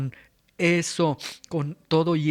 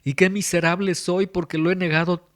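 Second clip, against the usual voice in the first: raised, pleading cry of a sinner; repentant outcry; 3 semitones higher, 4 dB louder than usual. Retold or imitated. Preacher voicing the congregation's repentant cry to God, raised and pleading. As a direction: cry it out as a broken penitent. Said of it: "este clamor de".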